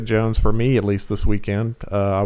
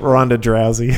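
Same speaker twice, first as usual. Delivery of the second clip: laughing; 5 dB louder than usual. Acted. Mocking nickname with laughter.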